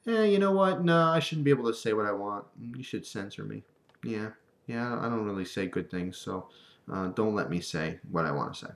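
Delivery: a hint of a sheepish passerby; mock confession, trailing off; mock self-censoring person. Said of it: "They're gonna say".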